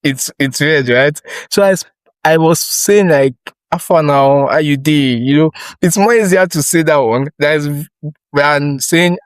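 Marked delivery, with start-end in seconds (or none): 3.7-5.2 casual Nigerian Pidgin greeting, lightly voiced. Stammerer recalls switching to easy Nigerian Pidgin, casual greeting. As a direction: toss off a relaxed Pidgin hello in Nigerian Pidgin. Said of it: "one thing I used to overcome this part of it was speaking in pidgin".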